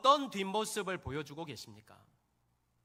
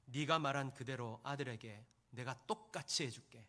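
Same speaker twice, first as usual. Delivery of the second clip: God's voice; 6 semitones lower, 6 dB quieter than usual. Retold or imitated. Preacher recounting God's voice to a mother, low and hushed. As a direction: lower and softer, a hushed voice of God.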